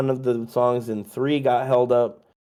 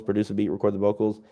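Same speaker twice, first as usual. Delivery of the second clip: quick rattled-off repeat; faster than usual. Shown as a demonstration.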